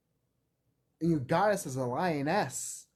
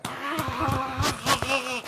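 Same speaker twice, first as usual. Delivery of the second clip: short playful growl-cry; mock roar; 7 semitones higher than usual. Mocking how we scare them, a laughing roar. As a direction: let out a jokey ape roar. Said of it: "we go like".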